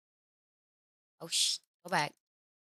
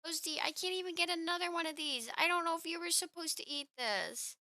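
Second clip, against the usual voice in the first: cooing at the cat; 6 semitones higher, 8 dB quieter than usual. Real, not acted. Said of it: "telling Toasty".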